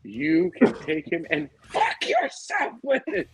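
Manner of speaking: mock the big-shot boss threatening down the phone; a hint of a swaggering mogul, drawn out; imitating a crude movie boss. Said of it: "Just the way he says it".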